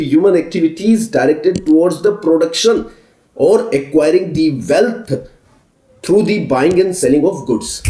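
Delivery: very slow, word by word for note-taking; slow dictation. Shown as a demonstration. Teacher dictating the definition slowly for students to copy. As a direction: spell it out so they can write. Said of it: "dictating notes to students".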